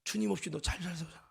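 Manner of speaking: soft, low reproach; quiet inner accusation; voice of conscience. Retold or imitated. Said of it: "양심의 소리가 살아난다면".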